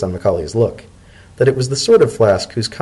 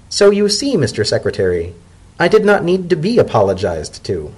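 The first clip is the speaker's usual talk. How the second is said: zebra elder; 6 semitones higher than usual. Acted. Macaulay concludes.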